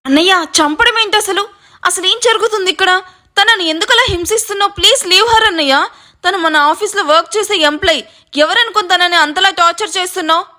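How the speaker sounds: high, urgent pleading; pleading alarm. A narrator's reading. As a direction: beg his brother in alarm. Brother pleads against torture.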